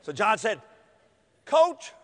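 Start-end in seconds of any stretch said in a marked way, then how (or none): 1.5-1.9 high, loud tearful call; mock tearful. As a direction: call out to coach as if crying. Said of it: "He started crying".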